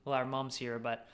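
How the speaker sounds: hushed, secretive voice; whispering. Real, not acted. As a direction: keep it quiet from mom. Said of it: "You're whispering".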